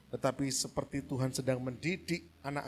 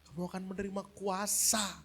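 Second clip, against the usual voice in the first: voice of Jesus; 9 semitones higher, 8 dB louder than usual. Acted. Jesus voiced addressing disciples.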